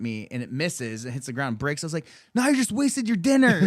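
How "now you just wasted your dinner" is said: high-pitched, incredulous jeer; mock taunt. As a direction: re-enact jeering at your attacker, pitched up. Acting out his taunt to attacker.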